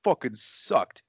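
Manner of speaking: mock outrage at a bad movie; angry customer. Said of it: "and he's like".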